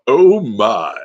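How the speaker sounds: hint of George Takei's drawn-out oh my; Sulu impression. Impressionist doing Sulu for viewers, lightly voiced. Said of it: "My voice has to be deep for Sulu".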